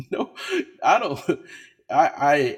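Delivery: loud, high no; loud refusal. Real, not acted. Refusing the expensive blazer.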